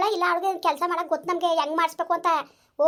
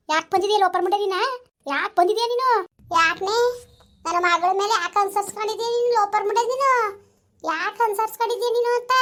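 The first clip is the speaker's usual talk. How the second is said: scolding, voice raised; angry berating; 2 semitones higher than usual. Acted. Mother-in-law scolding the possessing spirit, angry and raised. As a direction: tear into her with insults.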